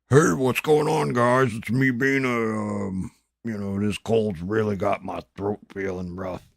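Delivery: a cheery, hammed-up stranger greeting the chat; different person voice. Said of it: "Like that kind of different person".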